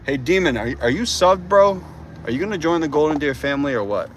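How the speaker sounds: rising, loud excited calling out; excited shout to a viewer to subscribe; hyped plea. Real, not acted.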